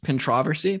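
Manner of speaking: "Controversy" as a questioning con-TROV-ersy, rising; British pronunciation. Shown as a demonstration. Host guessing how Brits say it, "Controversy" as con-TROV-ersy, unsure. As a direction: try out "Controversy" with stress on the second syllable. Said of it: "They say something like that".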